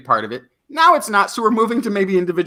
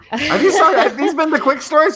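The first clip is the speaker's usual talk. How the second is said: high-pitched, laughing disbelief; 10 semitones higher, 4 dB louder than usual. Real, not acted. Co-host reacting to the quick stories not being quick, laughing. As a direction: ask it through laughter, pitch way up.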